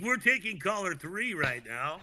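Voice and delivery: smooth announcer delivery; like a DJ taking a call on air; radio voice. Pretend. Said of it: "uh, radio voice".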